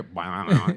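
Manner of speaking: low mock crash noise; imitated guitar smash. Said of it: "and you hear".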